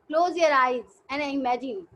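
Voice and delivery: very slow, drawn-out instruction; slow guiding. Shown as a demonstration. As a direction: lead them slowly into imagining. Guiding kids' imagination exercise.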